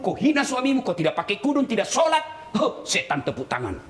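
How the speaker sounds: ordinary talk, nothing marked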